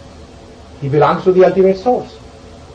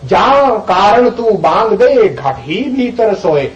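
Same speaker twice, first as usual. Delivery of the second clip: drawn-out devotional recitation; slow recited verse; 4 semitones higher, slower than usual. Acted. Teacher recites Kabir's verse to listeners, slow and intoned. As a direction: savour each word of the verse.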